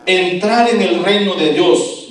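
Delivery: strong exclamatory tone. Acted. Jesus warning his disciples about the rich, forceful exclamation. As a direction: proclaim it as a stern warning. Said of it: "lo está diciendo en un tono fuerte".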